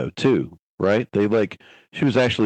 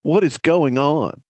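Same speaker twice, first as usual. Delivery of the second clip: slow, a touch louder and higher, baffled; mock bewildered; 4 semitones higher, 3 dB louder, slower than usual. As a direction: act out stunned disbelief. Imagined parent's baffled reaction.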